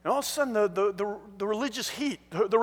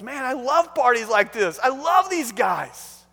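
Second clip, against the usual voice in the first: emphatic delight; 5 dB louder, slower than usual. Acted. Jesus answers the angry leaders.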